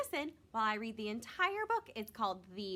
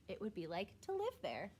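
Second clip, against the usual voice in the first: gentle storybook narration; reading to children. A narrator's reading. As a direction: read it like a bedtime story for kids.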